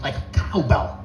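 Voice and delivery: lightly done halting celebrity cadence; a hint of odd, stretched stress on the last word; Christopher Walken. Doctor clarifying the bell, lightly as Christopher Walken. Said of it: "he sounds like Christopher Walken".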